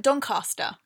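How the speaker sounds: Doncaster said as DON-cah-stuh; long-A Doncaster. Retold or imitated. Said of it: "But I say Doncaster".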